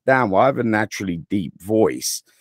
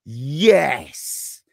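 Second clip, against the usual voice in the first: mock greeting; 7 semitones higher, 5 dB louder, much slower than usual. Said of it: "I can throw a couple of words there".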